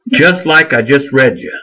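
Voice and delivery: ordinary delivery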